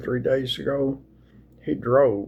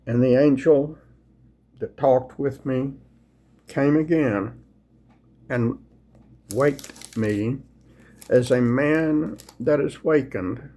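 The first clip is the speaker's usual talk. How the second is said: slow, measured King James reading; unhurried, reverent scripture reading. Acted. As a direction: read the Bible aloud like a sermon text. Reads Zechariah aloud to viewers.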